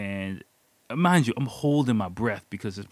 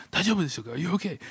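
higher-pitched voice of the man on the phone; concerned security caller; 9 semitones higher, much faster than usual. Retold or imitated. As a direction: imitate a caller checking on someone. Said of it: "and the guy's like".

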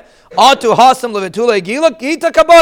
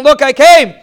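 higher, louder retold shout; mock yelling; 4 semitones higher, 5 dB louder than usual. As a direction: play the desperate husband yelling he made it. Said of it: "He's yelling and screaming".

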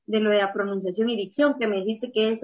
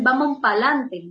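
Puerto Rican; slower than usual. Retold or imitated. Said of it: "los de los puertorriqueños, cuando dicen".

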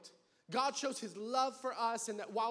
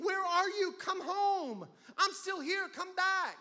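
higher, pleading call; God calling home; 5 semitones higher, slower than usual. Acted. God calling the sinner home. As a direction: reach out like a father calling a child. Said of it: "God is saying".

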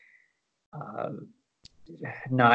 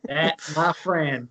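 put-on Southern country cook unveiling his toast in accent; Southern cooking-show accent; 4 semitones higher than usual. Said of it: "in a Southern accent".

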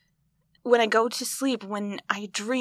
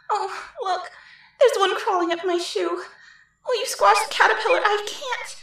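nervous laughing; 9 semitones higher than usual. Acted. Dream bird scene, nervous laughter.

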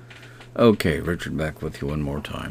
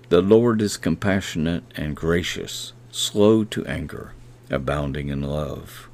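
a measured, reverent reading of the verse; scripture reading. Acted. Preacher reading Hebrews to podcast listeners, reverent.

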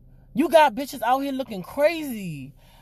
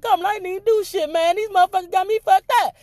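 mock protest; 5 semitones higher, faster than usual. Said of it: "I'm gonna be like".

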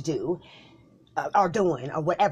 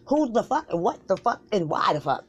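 heated cussing; 4 semitones higher, 4 dB louder than usual. Acted. Exploding at cussing.

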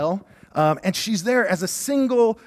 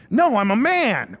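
mock indignant refusal; 3 semitones higher, 4 dB louder, slower than usual. Husband rejects reading the instructions.

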